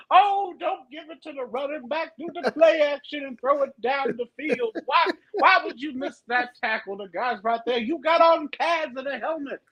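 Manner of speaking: hammed-up exasperated armchair coach; lightly mocked football fan. Co-host imitating her watching football, mock-exasperated fan. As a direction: whine at the players through the TV. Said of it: "is this how you watch football games?".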